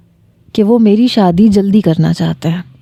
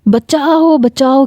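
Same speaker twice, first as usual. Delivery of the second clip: high cry of help, pitch shooting up; calling for help; 5 semitones higher, slower than usual. Acted. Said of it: "میں نے شور مچانا شروع کر دیا".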